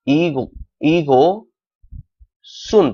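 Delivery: ईगो सुन broken slowly into parts, s sound in सुन; linked reading. Shown as a demonstration. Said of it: "पढ़ेंगे हम इसको". (ईगो सुन धीरे-धीरे तोड़कर, "स" के साथ)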